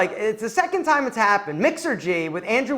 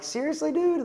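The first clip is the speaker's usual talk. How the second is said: incredulous; 7 semitones higher, 6 dB quieter than usual. Retold or imitated. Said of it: "And I'm like".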